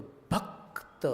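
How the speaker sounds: भक्त with क struck against त, slow; भक्त half-breathed, deliberate; clipped demo. Shown as a demonstration. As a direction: say भक्त slowly, stressing the क-त clash. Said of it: "त उसके बाद है".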